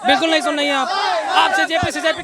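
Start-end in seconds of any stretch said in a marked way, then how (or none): 0.1-0.9 angry shout. Real, not acted. Protester shouting angrily at the reporter. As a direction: yell it back at her in anger.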